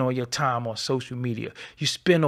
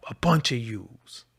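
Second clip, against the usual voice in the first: breathy whispered jab at the end; whispered scorn; 3 semitones lower than usual. Real, not acted. Ranting at online critics, a whispered scornful jab. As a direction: drop to a contemptuous whisper.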